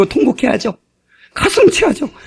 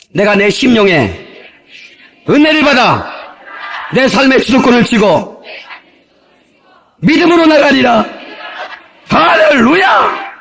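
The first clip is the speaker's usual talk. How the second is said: rallying declaration; slower than usual. Shown as a demonstration. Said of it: "한번 합시다".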